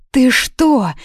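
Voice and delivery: high, loud shriek. A narrator's reading. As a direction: squeal it out in alarm. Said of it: "взвизгнула Юна". (визгливо, с испугом)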